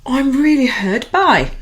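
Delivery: slow, earnest; sincere self-talk. Shown as a demonstration. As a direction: say it to yourself in the mirror. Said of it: "look at yourself in the mirror and say".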